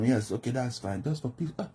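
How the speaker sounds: a mild mock of a henpecked husband; meek yes-man. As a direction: play the husband who just wants peace at home. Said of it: "Whatever you tell them".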